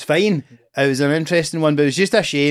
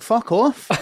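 higher mock dismissal; retold fuck off; 8 semitones higher than usual. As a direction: brush them off sharply. Refusing heckler's hug.

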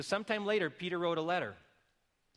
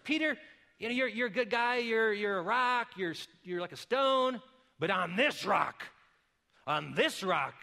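emphatic Jesus; 4 semitones higher, 5 dB louder than usual. Acted. Jesus voiced addressing Peter, fired up.

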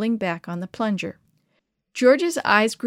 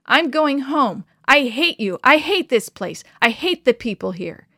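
hot answer; 4 semitones higher, 6 dB louder than usual. A narrator's reading. Boy storming off, shouting at the elder. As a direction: hurl each hate at him. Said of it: "George answered hotly".

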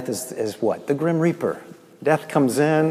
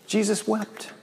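emphatic quote; 10 semitones higher than usual. Real, not acted. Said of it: "Two words".

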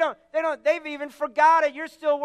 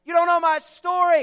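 mock protest; 3 semitones higher, 5 dB louder than usual. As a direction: protest like a stubborn congregant. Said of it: "And you say".

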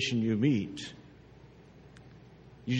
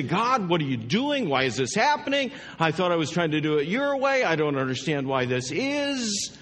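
mildly exasperated questioning, pitched up at first; frustrated with God; 3 semitones higher than usual. Acted. Believer questioning God about hard circumstances, frustrated. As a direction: protest in bewildered frustration. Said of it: "We get frustrated with God and say".

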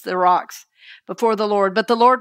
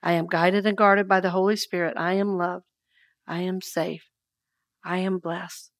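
fading affirmation; 3 semitones lower, 6 dB quieter than usual. Shown as a demonstration. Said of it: "go inward into the silence".

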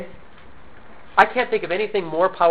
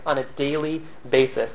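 "daily" set apart and deliberately weighted; emphatic "daily", without raising the voice; stress on daily; 3 semitones lower, 4 dB quieter than usual. Real, not acted. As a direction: lean on the word "daily", measured and unhurried. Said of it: "I want to emphasize the word daily".

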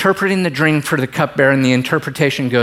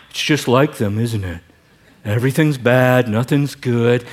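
Eeyore; 3 semitones lower than usual. Retold or imitated. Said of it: "His second line".

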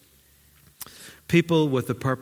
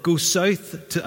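angel voice; 5 semitones higher, much slower than usual. Acted. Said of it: "could you do an angel's voice".

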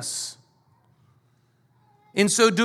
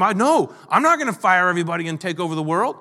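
mock indignant denial, rising at the end; indignant protest; faster than usual. Someone defending his reputation against a rumour, indignant. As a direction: protest it quickly, ending on an incredulous rise.

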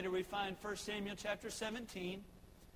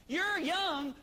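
urgent Saul; 7 semitones higher, 4 dB louder than usual. Retold or imitated. Saul warns David.

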